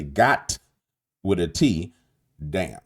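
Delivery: "got" ending in a clear T, then "damn". Shown as a demonstration. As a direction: spell out the T in "got". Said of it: "I say".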